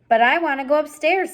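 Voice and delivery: loud, high protest; whining. Acted. Mig protesting to Roscuro, loud whiny protest. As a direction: complain like a child. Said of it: "said Mig".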